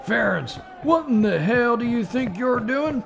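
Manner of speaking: drill sergeant. Acted. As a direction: yell orders at the recruits. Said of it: "Full Metal Jacket parody".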